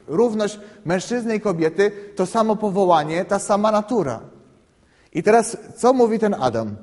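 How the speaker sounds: ordinary talk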